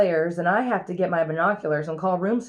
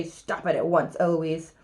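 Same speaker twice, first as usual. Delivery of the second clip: lower, deadpan echo; cool copycat mockery; mimicking the tutor; 4 semitones lower than usual. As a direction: parrot the order back in a lowered voice. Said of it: "And then I say".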